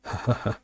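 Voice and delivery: short, soft scoffing laugh; mocking laugh. A narrator's reading. Dali and his companions laughing at Lais, understated mocking laugh. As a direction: read out a brief, understated laugh of ridicule. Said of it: "ضحك دالي ورفاقه بشدة".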